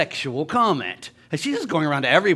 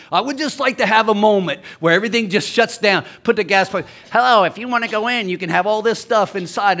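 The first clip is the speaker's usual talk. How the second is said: exasperated rant; 6 semitones higher, 7 dB louder than usual. Retold or imitated. Mocking talking gas pump.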